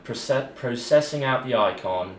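put-on a light stab at a British announcer accent; understated British newsreel voice. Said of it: "I can do a British accent".

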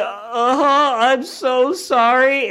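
high, slow, laughing sorry; shocked laughing apology. Retold or imitated. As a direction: squeak out a mortified apology through laughter. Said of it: "like, shocked".

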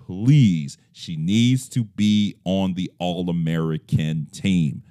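slow, each word laid down firmly; dictating. Shown as a demonstration. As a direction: state it like an official quote. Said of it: "Close quote, end of sentence, period".

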